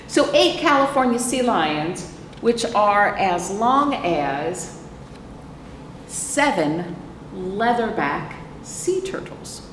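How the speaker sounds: slow, drawn-out picture-book read-aloud; slow storytime reading. A narrator's reading. Librarian reading the book to children, slow storytime read. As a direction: read each phrase slowly to the little ones.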